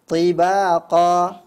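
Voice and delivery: TIBAQA loud and drawn out, heavy T; correct heavy ta. Shown as a demonstration. Quran teacher modelling for the reader, slow heavy ta. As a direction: recite TIBAQA very slowly with a full emphatic T. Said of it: "nah, seperti itu".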